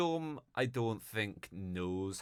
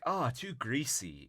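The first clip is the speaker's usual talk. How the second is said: higher-pitched, lightly exaggerated complaint; mock whiny refusal; 5 semitones higher than usual. Pauly turns down his uncle's job idea, mock whiny refusal. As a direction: lightly imitate a slacker rejecting work.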